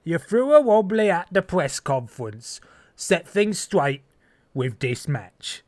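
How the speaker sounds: slow, drawn-out imitation of the promoter's questionable accent; Tavish's accent. Parroting the chairman's press-conference jab in his accent. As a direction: mimic the wrestling boss's accent, stretching the last words. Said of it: "a wrestling promotion owner with a questionable accent".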